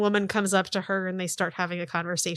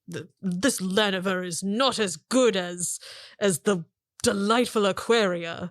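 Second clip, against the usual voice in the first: snooty elf. Acted. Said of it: "He's like".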